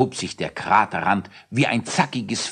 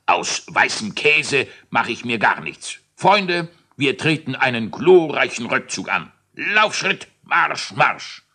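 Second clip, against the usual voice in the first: majestic king; 4 semitones higher than usual. Acted. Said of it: "majestätisch".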